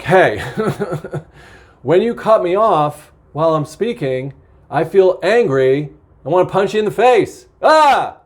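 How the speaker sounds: half-joking angry confrontation with a yell at the end; mock angry outburst. Shown as a demonstration. Demonstrating how to tell someone off when they interrupt, mock angry. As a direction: act out venting anger at someone, ending in a short cry. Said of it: "like I might say to somebody".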